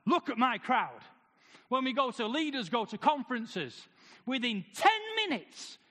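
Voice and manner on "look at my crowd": louder mock boast about the crowd; boastful exclaim. A pastor showing off his crowd, loud mock boast. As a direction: crow over the crowd, hammed-up. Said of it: "We like to say".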